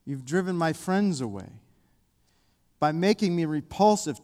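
slow psalm reading with long pauses. Real, not acted. Preacher reads Psalm eighty-eight for the congregation, slowly. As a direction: read each line slowly, letting it hang. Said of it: "I want to read them slow".

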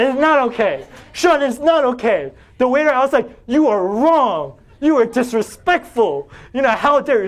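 re-enacting a restaurant blow-up, half-shouting; retold angry yelling. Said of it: "started yelling at Sean".

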